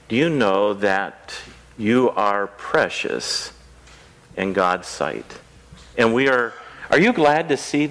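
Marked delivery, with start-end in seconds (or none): 0.1-5.4 tender reassurance. Real, not acted. Tells children they are precious.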